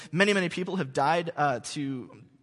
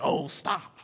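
slow, high, coy protest; mock flattered; 7 semitones higher, 4 dB louder, much slower than usual. Ephron coyly protesting to Abraham, slow and high. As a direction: brush off the offer with fake modesty. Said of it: "He's like".

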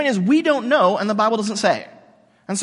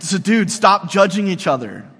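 slow, louder, buddy-style "So dude"; casual dude voice; 7 dB louder than usual. Shown as a demonstration. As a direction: scold like a friend, not a preacher. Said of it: "That's how it would sound".

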